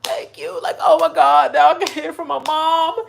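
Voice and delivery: high, climbing thrilled squeal; mock gushing Taylor. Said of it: "all Taylor was doing was like".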